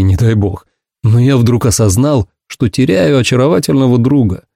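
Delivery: ordinary delivery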